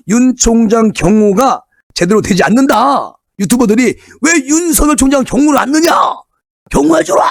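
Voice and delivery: imitating supporters yelling at organizers, pitched high; mock yell. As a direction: belt it out like an angry supporter in a crowd. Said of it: "막 고성으로 소리를 지르고".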